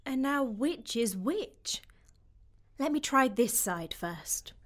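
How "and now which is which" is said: slow, secretive whisper to herself. Acted. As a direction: whisper it under your breath.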